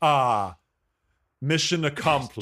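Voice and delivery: smug, self-satisfied sigh; smug satisfaction. Retold or imitated. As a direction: lean back, proud of a job done. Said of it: "you say".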